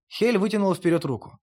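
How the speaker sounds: usual speaking voice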